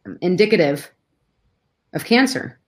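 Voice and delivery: halting, holding back real emotion; sigh, then push on through long pauses; getting emotional. Real, not acted. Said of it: "I'm getting all emotional".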